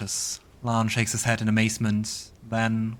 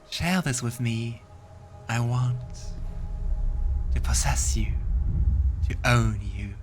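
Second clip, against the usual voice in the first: seductive succubus; 2 semitones higher than usual. Acted. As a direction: tempt and claim him.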